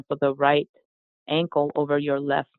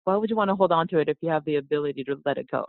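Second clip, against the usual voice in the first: quick rushed restatement; hurried rhetorical question; fast rush; much faster than usual. Real, not acted. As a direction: rattle it off fast as an aside. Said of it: "restating the same question fast".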